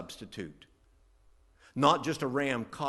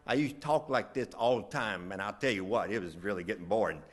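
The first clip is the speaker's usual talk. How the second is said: lightly demonstrated West Virginia Southern twang; Southern accent; 3 semitones lower than usual. Shown as a demonstration. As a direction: slip briefly into old Southern slang speech. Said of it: "I dropped Southern s-, slang".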